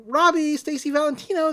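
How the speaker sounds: a mother calling her son down to meet his visitor; calling upstairs. Retold or imitated. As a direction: call the son down like a cheerful mom. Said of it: "his mother calls him down".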